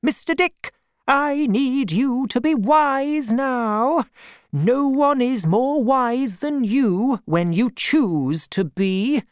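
put-on high, slow, firm old woman; aunt urging Mister Dick. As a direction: press him firmly to be wise. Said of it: "my aunt said firmly".

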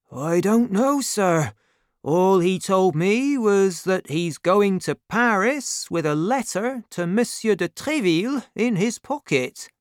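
high-pitched, deferential innkeeper; innkeeper character. Acted. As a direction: answer a gentleman as the humble innkeeper. Voices the innkeeper answering.

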